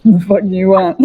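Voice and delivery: lightly voiced creature, low; a touch of low-voiced grumpy creature; creature's imagined reply. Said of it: "looking at you now, like".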